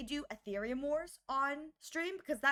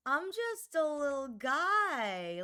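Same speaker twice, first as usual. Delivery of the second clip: slow cutesy; 3 semitones higher, 3 dB louder, much slower than usual. Shown as a demonstration. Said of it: "I don't know what you expect".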